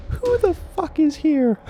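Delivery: very high, slow, loud demand; aggressive cop bark. Acted. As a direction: grill them like a hothead cop. Cop barks at group.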